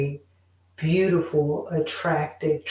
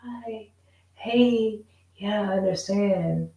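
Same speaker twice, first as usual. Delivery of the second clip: mock fake niceness; 3 semitones higher than usual. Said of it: "pretend that they're like how you are".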